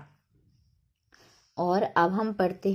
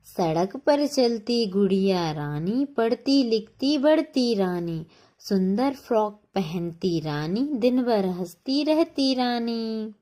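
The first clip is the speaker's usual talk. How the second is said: put-on children's rhyme; 3 semitones higher than usual. Shown as a demonstration. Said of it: "अब इन्हें पढ़ो".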